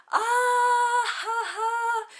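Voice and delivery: mock laugh. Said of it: "We're like".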